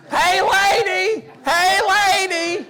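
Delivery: put-on high, loud, slow goofy yell as the child; the daughter's Jerry Lewis copy. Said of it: "do her Jerry Lewis imitation".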